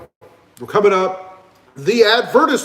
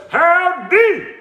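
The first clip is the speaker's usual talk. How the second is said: deeper voice; 10 semitones higher, 3 dB louder than usual. Retold or imitated. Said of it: "Notice the deeper voice there?".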